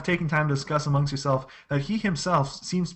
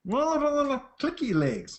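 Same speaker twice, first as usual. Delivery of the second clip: high, slow little creature voice; 11 semitones higher, much slower than usual. Acted. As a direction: drawl it out high as the odd creature.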